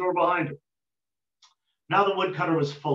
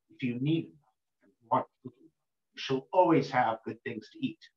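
mysterious night voice; 4 semitones lower than usual. Acted.

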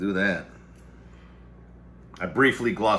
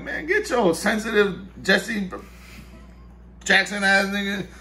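mock retort; 13 semitones higher, 4 dB louder, slower than usual. Retelling own retort in dream.

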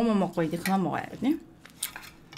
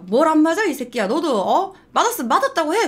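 high and louder, scolding hard; angry yell; 7 semitones higher, 5 dB louder than usual. Retold or imitated. Retelling scolding the boy so he would admit he was hit, an angry high yell. Yelling at the bullies.

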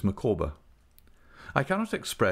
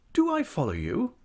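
affable businesslike; 11 semitones higher than usual. Acted. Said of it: "with her most affable air of business".

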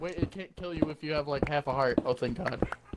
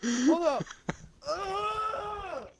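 disgusted; 8 semitones higher, much slower than usual. Real, not acted. Still covered in mucus, disgusted.

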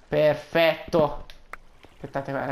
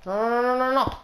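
1 no disperati; 8 semitones higher than usual. Real, not acted. In pericolo, disperato.

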